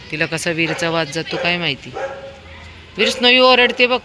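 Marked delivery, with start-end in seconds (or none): 3.0-4.0 high, loud call with a laugh between. Real, not acted. Mother calling her son as the dog barks, loud amused call.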